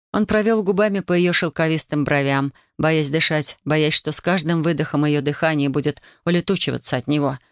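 plain reading voice

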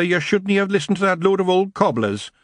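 a wee chieftain telling him off; Scottish pixie chief. Acted. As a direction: Rob the Feagle scolding his kinsman, high Scots. Said Rob.

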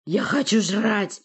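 slow, growling monster bark. A narrator's reading. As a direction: bark it like a hungry beast. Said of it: "рявкнул позади Порти Рык".

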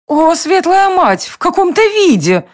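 a queen aghast at the sight; shocked queen. A narrator's reading. Queen shocked by friend's state. (потрясённая королева, выше, медленно)

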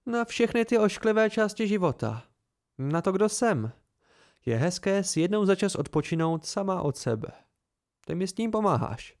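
a hint of playful young woman. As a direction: tease him lightly with warmth. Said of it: "zněl její hlas zase hravě".

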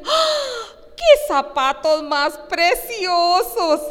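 high, slow, swooning compliment; gushing admirer. Pretend. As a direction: coo over the shoes like a dazzled friend. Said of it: "y le dicen".

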